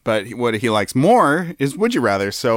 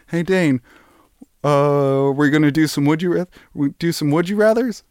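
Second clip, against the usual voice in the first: a light, slightly higher take on Jimmy, asking eagerly; Jimmy impression; 4 semitones higher than usual. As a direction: play Jimmy, half-hearted and upbeat. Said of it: "that's what he sounds like".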